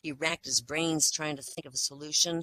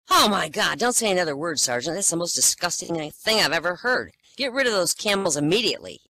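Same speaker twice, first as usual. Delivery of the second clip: put-on louder, appalled young officer scolding; outraged officer; 6 dB louder than usual. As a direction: bark it like a shocked officer.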